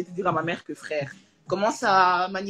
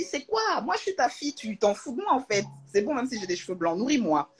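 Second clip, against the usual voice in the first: put-on higher, half-playful replay of a childish fit; imitating a daughter's mock outrage; mock tantrum; 4 semitones higher than usual. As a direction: act out your own tantrum at mum, hammed-up. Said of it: "J'ai fait une crise".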